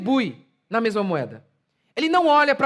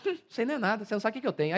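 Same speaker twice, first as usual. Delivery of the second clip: quieter, scoffing one-upping voice; competitive victim; 7 dB quieter, much faster than usual. Retold or imitated. Preacher mocks a competing victim, scoffing and quieter. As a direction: sniff and outdo the other's suffering. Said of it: "Aí começa".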